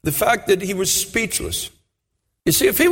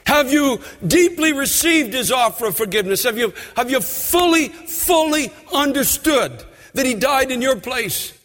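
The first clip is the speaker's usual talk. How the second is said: preaching at full force; 6 semitones higher than usual. Acted. Preacher exhorting the congregation to repent, full force. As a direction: drive it home from the pulpit.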